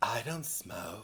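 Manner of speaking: breathy, airy put-on voice, extra breath every word. Correcting another speaker's quote of a film line, breathier Alice voice. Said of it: "Yes, but breathier".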